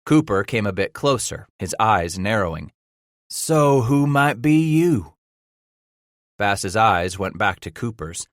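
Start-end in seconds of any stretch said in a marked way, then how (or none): 3.3-5.1 gruff frontiersman. Acted. Leader questions captive.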